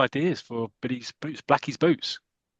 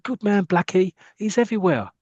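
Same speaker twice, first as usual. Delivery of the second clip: high cheering fan voice; crowd praise; 5 semitones higher than usual. Acted. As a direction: cheer on the hero like a supporter. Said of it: "And they're going".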